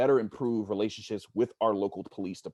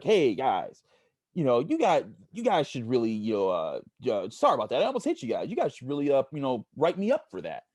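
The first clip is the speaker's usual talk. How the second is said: higher, a bit louder, sheepish retold cop; mock apologetic cop; 3 semitones higher, 3 dB louder than usual. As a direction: play the cop owning up, voice raised. Retold cop apologizing after near miss.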